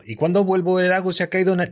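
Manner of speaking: "¿Y cuándo vuelvo?" snapped right on the beat; on-beat take. Shown as a demonstration. Host showing the proper rhythm, tight. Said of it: "tiene que ser tacata".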